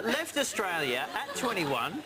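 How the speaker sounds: slow, with a laugh breaking through; giggling through the words. Real, not acted. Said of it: "It's that kind of night".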